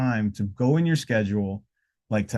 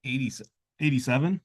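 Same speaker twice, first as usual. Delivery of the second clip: high, stretched-out welcome call; show intro; 5 semitones higher, slower than usual. Real, not acted. Host opens the episode for everybody, drawn-out show intro. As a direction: draw the show name out long and high.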